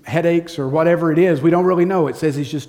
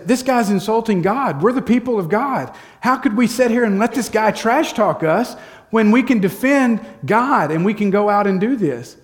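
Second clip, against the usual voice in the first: higher-pitched, earnest retelling of David's protest; indignant protest; 6 semitones higher than usual. Retold or imitated. David urging his brothers to defend God, indignant.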